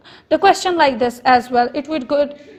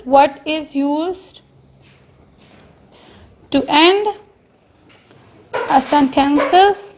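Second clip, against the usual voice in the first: very slow, each word spaced out; slow dictation; much slower than usual. Shown as a demonstration. Teacher dictating the question slowly to students. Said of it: "write question number nine".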